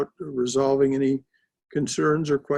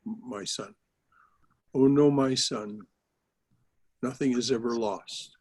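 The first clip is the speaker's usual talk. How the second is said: tender; 2 semitones lower than usual. Acted. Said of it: "addresses him in that way".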